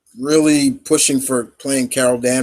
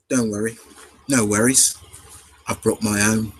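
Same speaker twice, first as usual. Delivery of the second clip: lightly imitated Cockney accent; casual reply in mock Cockney; a hint of Cockney; Frye twin impression; 3 semitones lower than usual. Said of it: "listen to the Fry, the Fry twins talk".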